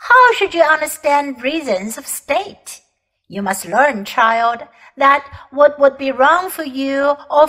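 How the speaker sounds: proud imperious queen. Acted. Queen lecturing the common boy, haughty. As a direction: talk down to the boy like a monarch.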